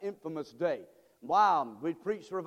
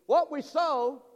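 loud, high and drawn out; ringing, raised call to the congregation; preacher's call-out; 6 semitones higher, 7 dB louder, slower than usual. Real, not acted. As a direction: slowly proclaim it for all to repeat. Repeats it for congregation.

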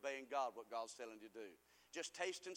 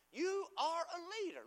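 raised, louder proclamation; emphatic declaration; 10 semitones higher, 4 dB louder than usual. Real, not acted. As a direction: declare it over them with force. Preacher declaring to congregation.

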